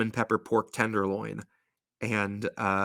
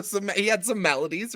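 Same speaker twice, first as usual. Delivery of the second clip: laughing; 10 semitones higher than usual. Real, not acted. Laughs while speaking.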